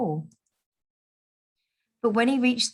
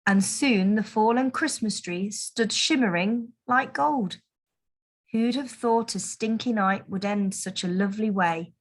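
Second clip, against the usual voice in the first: plain reading voice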